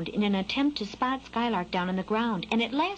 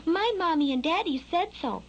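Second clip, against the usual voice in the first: high little bird stating a fact; childlike, simply certain; matter-of-fact; 7 semitones higher than usual. A narrator's reading. Skylark telling the worm he won't fly, matter-of-fact. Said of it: "said Skylark matter-of-factly".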